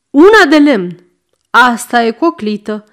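mildly barked order at Leana; snapping. Acted. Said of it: "Se răsti la Leana". (răstit)

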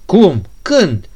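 loud, high snapped questions; startled demand. Acted. Ganea jolted by the prince's reply, loud and high. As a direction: fire two quick shocked questions.

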